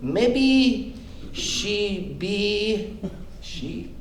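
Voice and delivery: slow, halting mock ramble; hammed-up confused reporter; rambling questioner. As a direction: stumble through the question.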